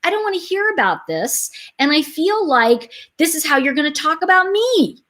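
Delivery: firm. Retold or imitated. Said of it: "I just went".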